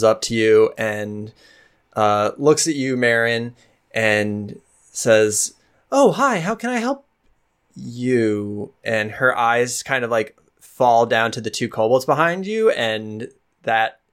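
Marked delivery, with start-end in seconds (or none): 5.9-8.7 put-on much higher, bright-eyed young waitress greeting guests; young tavern girl. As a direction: pitch it way up like an eager young server. GM voices young tavern woman.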